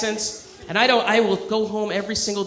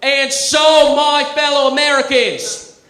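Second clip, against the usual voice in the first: louder, higher, slow presidential oratory in Kennedy's voice; Kennedy addressing the country, hammed-up Boston orator; JFK impression; 5 semitones higher, 4 dB louder, slower than usual. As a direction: declaim like a president giving the inaugural. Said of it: "John F. Kennedy standing ... going".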